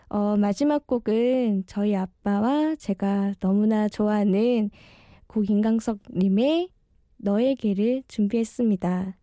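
speaking with braces; slightly slurred speech from braces. Real, not acted. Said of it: "제가 교정 중이라 발음이 너무 엉망진창인데".

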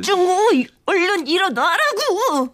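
impatient wake-up call. Acted. Shaking a sleeper awake.

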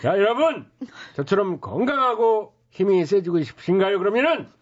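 brash hawker's sales pitch; snake oil seller. Acted. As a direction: talk up the miracle tonic.

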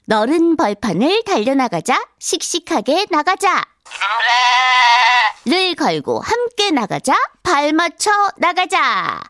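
lively lyric recitation; reading to children. Acted. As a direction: read the lyrics to kids with bounce. Rereads quiz lyrics.

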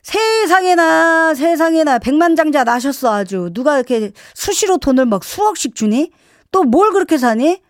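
mock-scandalised mum telling off a spender; exaggerated, exasperated nagging; imitated angry mother. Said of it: "그렇게 화를 내시더니".

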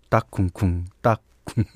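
beatbox the drum pattern; eight beat vocal drums. Shown as a demonstration. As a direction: kick and snare sounds by mouth. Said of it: "어, 쿵".

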